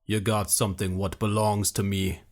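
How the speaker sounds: a hint of a grizzled fighter; gruff Beogas. A narrator's reading. Warrior claiming his companion, lightly gruff. Beogas voiced in read story.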